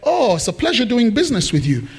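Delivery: lightly acted gushing thanks; effusive pretend politeness; mock grateful buyer. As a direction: play the delighted customer thanking himself. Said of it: "came over this way and said".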